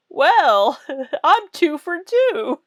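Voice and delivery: high laughing brag. Real, not acted. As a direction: laugh through it. Laughing at own joke.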